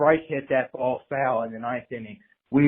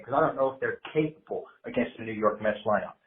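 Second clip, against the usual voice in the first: usual speaking voice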